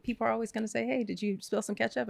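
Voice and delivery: high, fretful imitation of herself; mock fretting. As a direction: whine it like a small drama. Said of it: "I'm like".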